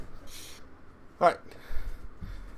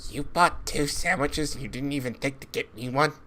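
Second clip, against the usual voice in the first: soft nagging inner voice; whisper-quiet guilt trip from inside; little voice in your head; 10 dB quieter than usual. Acted. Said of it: "little voice in your head".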